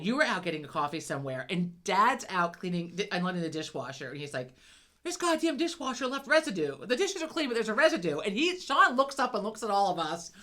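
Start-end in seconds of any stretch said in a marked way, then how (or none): 5.0-8.2 retold exasperated grumble. Retold grumbling granddad at dishwasher.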